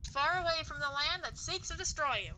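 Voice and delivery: put-on a touch of old Hollywood transatlantic accent; lightly voiced grand old movie star, transatlantic. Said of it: "you brought back the transatlantic accent".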